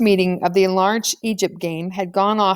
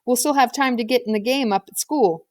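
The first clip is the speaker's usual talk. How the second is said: put-on boy's voice; 4 semitones higher than usual. Ken voiced as a boy.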